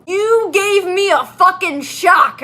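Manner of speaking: high, loud, slow angry yell; hammed-up angry outburst; angry shout. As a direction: drag out the furious line. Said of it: "I shouted angrily".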